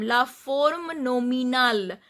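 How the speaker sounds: "la forme nominale" ending on the L; silent final E. Shown as a demonstration. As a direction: drop the last E of "nominale". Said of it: "I am not pronouncing this E".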